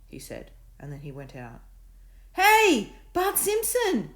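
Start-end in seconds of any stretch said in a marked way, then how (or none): 2.3-4.1 loud, high shout. A narrator's reading. Davina shouting after Bartholomew, loud. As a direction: call after him angrily. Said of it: "shouted Davina".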